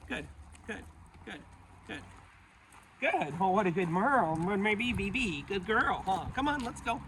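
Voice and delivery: high, sing-song praise for a good dog. Real, not acted. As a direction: gush over the dog in a high voice.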